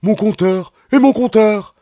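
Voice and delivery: high, loud driver yelling; angry yell. Acted. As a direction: shout after him about the fare. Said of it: "crie après moi".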